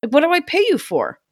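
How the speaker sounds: mock outraged customer rant; mock indignant rant. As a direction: whine like a fed-up customer. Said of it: "I've probably been like".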